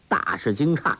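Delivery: ordinary delivery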